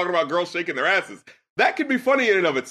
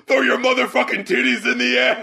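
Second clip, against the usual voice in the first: mock shout; 4 semitones higher than usual. Reviewer quoting an absurd lyric, mock shout. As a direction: shout it like a hype rapper. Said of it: "He says".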